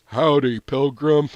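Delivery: mock cowboy American accent; a hammed-up American drawl for fun; a joking American cowboy accent. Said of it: "using an American accent".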